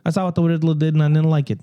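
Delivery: hammy Gotham witness voice; Gotham accent. Acted. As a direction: lay on a Gotham local accent. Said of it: "This is my Gotham accent".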